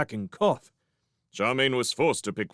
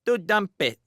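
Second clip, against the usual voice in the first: put-on high, insistent baby talk; toddler; 11 semitones higher, 4 dB louder than usual. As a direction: babble it like a pleased toddler.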